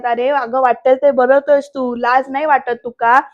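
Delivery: mild mock yell; scolding. Vaidehi's father scolds Varad, mild yelling. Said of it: "असं ओरडल्यानंतर".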